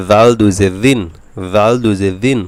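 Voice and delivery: দাল and দিন begun with a light th as in "this"; Arabic dhal in দাল, kept thin. Shown as a demonstration. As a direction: drill দাল দুই জের দিন, voiced th from the tongue tip. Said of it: "দাল পাতলা হবে জিহ্বার আগা দিয়ে".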